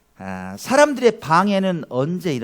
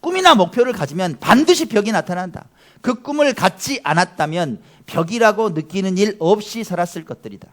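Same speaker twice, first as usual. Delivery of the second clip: quotation reading; 4 semitones higher, 6 dB louder than usual. Shown as a demonstration. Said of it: "이런 말을 했습니다".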